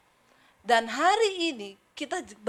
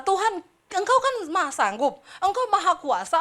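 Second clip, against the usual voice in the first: laughing prayer; 6 semitones higher, 6 dB louder than usual. Retold or imitated.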